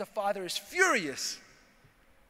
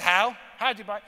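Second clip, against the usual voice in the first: surprised wife; 7 dB louder than usual. Retold or imitated. Wife demands how he bought.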